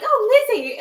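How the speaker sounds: high, loud cry of Oh Lizzie; mock excited call. Retelling the wrestlers' cartoon skit, mock excited high call. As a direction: call out like greeting the Queen.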